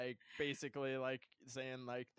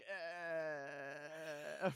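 long sigh noise; 3 semitones higher than usual. Retold or imitated. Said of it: "long noise for a minute".

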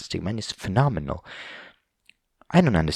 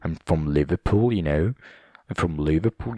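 lower-pitched, lightly put-on Liverpool accent; 4 semitones lower than usual. Shown as a demonstration. Podcaster claiming to be from the north, light Liverpool accent. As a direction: lay on a little northern English, Liverpool style. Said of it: "this British pronunciation, which comes out sometimes".

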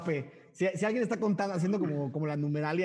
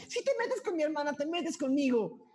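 niño desafiante; 9 semitones higher than usual. Acted. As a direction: warn like a brave little brother. GM voices a boy threatening. (amenaza aguda y lenta de niño)

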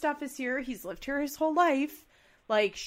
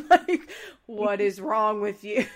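laughing mock shout; 7 dB louder, slower than usual. Joe mocking Kale's yelling.

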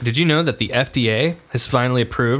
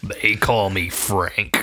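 showing off; 3 semitones lower, much slower than usual. Pretend. Slow deep sausage brag.

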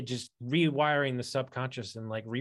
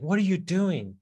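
mild mock yell, pitched up; retold yelling; 5 semitones higher, 3 dB louder than usual. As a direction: imitate an upset friend, higher but not fully shouted. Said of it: "he's yelling at me".

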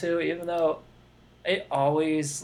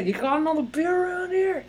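put-on much higher, loose Jersey accent; playful half Jersey accent; Jersey accent impression; 11 semitones higher than usual. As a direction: toss it off like a Jersey guy at a party. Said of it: "that's pretty good, almost Jersey accent".

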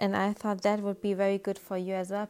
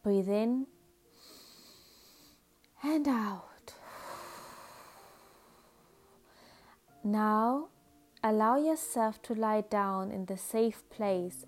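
calm, measured meditation guide with unhurried pauses; soothing guided-imagery voice, phrase by phrase. Acted. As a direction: gently lead the listener into relaxation.

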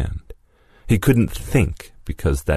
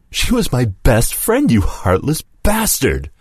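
hollered; 8 semitones higher than usual. Acted. Lewis hollers at Mason about his best friend. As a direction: holler it across the table. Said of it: "Lewis hollered".

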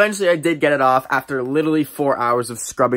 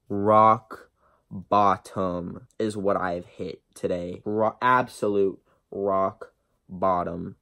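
放慢语速，略低沉; 半开玩笑地装绝望; mock despair; 5 semitones lower, 4 dB quieter, much slower than usual. Mock despair at own look.

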